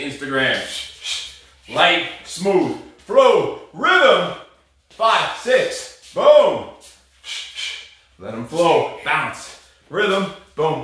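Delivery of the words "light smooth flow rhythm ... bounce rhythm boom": shouted punch cues; coach calling out combos. Real, not acted. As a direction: call it out on each punch.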